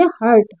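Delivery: "हर्ट" modelled as "hart"; teacher's demo of "हर्ट" with an "ar" sound; U read as "a". Shown as a demonstration. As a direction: say "हर्ट" with a short a before the r. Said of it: "इसको पढ़ेंगे".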